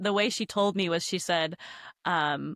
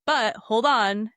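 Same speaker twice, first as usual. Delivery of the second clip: slow insistent halt; 2 semitones higher, 7 dB louder, much slower than usual. Retold or imitated. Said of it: "the spirit is like".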